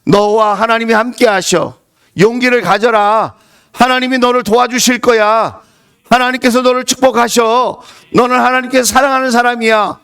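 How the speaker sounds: grandmother's blessing. Retold or imitated. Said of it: "이 할머니가 이렇게 말했어요".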